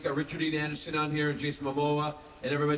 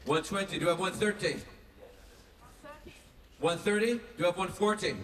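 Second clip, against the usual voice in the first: raised-pitch auctioneer's bid calling; 5 semitones higher, 3 dB louder than usual. Real, not acted. Actor auctions signed items to fans, auctioneer call. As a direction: call the bids out over the room. Calls bids at a fan auction.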